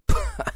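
short, sharp, high mocking snort; scornful scoff. Narrator laughing at his own hopes, scornful scoff. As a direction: blow out a disbelieving scoff.

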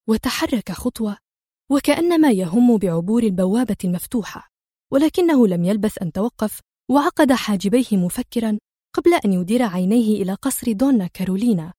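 ordinary delivery, nothing marked

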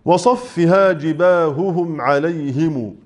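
جباههم slowly, each ه sounded; clear repeated ha. Shown as a demonstration. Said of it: "صف الهاء".

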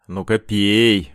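slow, menacing order through the teeth; through gritted teeth. A narrator's reading. Bully forces a glass on captive, through gritted teeth. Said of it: "процедил он сквозь зубы".

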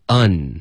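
"un" ending with tongue tip up on n; front n. Shown as a demonstration. Teacher warning learners about the nasal, front n. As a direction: close "un" on a front n. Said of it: "是一个顶舌尖的".

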